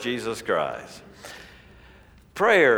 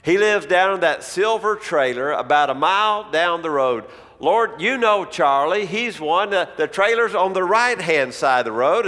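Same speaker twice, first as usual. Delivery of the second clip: earnest praying man; 3 semitones higher than usual. Retold or imitated. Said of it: "in his prayer".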